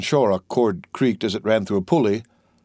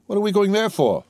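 much higher, dismayed query; alarmed question; 9 semitones higher than usual. Acted. Prisoner asks gendarme why they're going there, alarmed. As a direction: ask in rising alarm on a high pitch.

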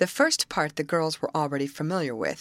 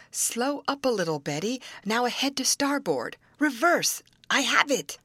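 raised, higher calling voice from the bow; 7 semitones higher than usual. Acted. Molly at the bow calling out steering orders, raised voice. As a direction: call out the orders to the helm. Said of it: "Thus cried Molly".

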